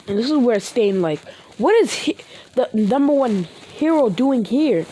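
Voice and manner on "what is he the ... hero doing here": stunned disbelief. Acted. Stain shocked to find Deku in prison, high stunned outburst. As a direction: blurt it out in total disbelief.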